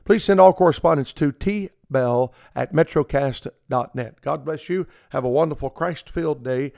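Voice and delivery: measured announcer read of the closing; radio sign-off. Acted. Preacher closing his radio program for listeners, announcer style. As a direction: wrap up the broadcast warmly.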